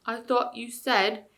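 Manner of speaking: slow, puzzled bear voice. Acted. Bear slowly puzzling over the ape's words. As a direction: think it out slowly, a dim bear. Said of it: "slow, puzzled voice".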